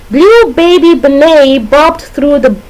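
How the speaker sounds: measured tongue twister for a class; demonstration sentence. Shown as a demonstration. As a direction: lean slowly on each B word. Teacher demonstrates an alliteration example.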